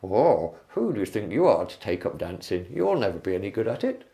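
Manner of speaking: lightly put-on bumbling comic voice; low, swooping comic impersonation; Mister Bean. Shown as a demonstration. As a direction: have a rough go at a goofy comic character. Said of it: "if Mister Bean was saying it".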